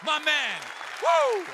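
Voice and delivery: hype host. Acted. Host hypes the crowd.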